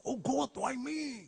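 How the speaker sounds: slow, high, drawn-out lament; mock despair. Fan asking after illness, slow mock lament. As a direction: wail it slowly to the sky. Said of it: "Biasanya ada ngomong".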